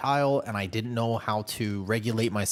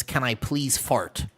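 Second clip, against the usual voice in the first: deadpan slow fart request; slower than usual. Retold or imitated. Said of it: "the other one is".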